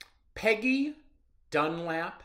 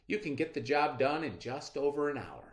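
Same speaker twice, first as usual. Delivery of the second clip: put-on expressive storytelling voice for children; story read aloud. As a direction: read it to the class like a picture book. Reads story aloud to class.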